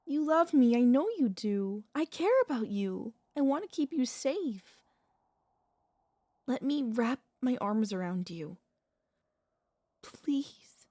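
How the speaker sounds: urgent, emphatic plea with swooping pitch; insistent, imploring reassurance; desperate pleading. Acted. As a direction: plead with a loved one who is pulling away. Pleads with frightened beloved.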